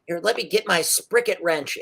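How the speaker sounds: lightly voiced fussy gnome; slightly high tinkerer voice; little gnome. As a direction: bustle about fixing his robot. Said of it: "he's like".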